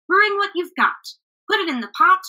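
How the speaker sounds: high, eager chant-like call; rallying cry. A narrator's reading. Travelers calling the village to contribute, rallying cry. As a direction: fire up the whole village. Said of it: "cried the travelers".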